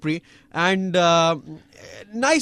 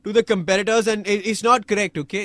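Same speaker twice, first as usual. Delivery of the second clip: loud, higher, cranky accusing rant; Maldonado impression; 6 semitones higher, 5 dB louder than usual. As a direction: rant at him like an angry driver. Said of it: "Did I sound like, like Maldonado?".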